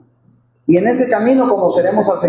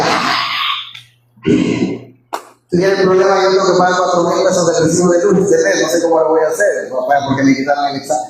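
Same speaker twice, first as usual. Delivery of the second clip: queja irónica, rápida, de padre agobiado; sarcasmo burlón; 2 semitones lower, faster than usual. Retold or imitated. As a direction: burla del drama de la hija, deprisa. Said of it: "me empaticé porque dije". (padre exagerando sus problemas con sarcasmo rápido)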